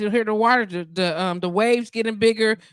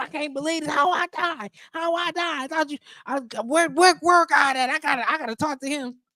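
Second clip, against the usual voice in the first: high, puffing, huffing, indignant and outraged disbelief; 6 semitones higher than usual. Retelling a story of a man at heaven's gates, teed off: acting out an angry, huffing man. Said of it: "he huffing and puffing".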